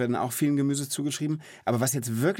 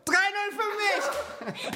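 high, slow gleeful laughing shout; laughing triumph; much slower than usual. Real, not acted. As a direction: crow the win through laughter. Winning third round, laughing.

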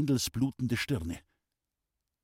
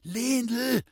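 anxious call; 12 semitones higher, 3 dB louder than usual. A narrator's reading. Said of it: "rief er leise".

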